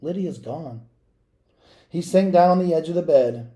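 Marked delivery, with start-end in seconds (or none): 0.0-0.9 quiet, sad admission; telling her father softly; softly saddened child. Acted. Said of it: "I told him sadly".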